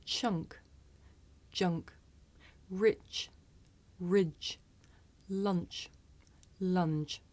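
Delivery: chunk junk rich ridge lunch lunge, voiceless ch then voiced j; careful minimal-pair demo. Shown as a demonstration. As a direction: contrast each pair clearly. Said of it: "I'll say the word with the voiceless sound first".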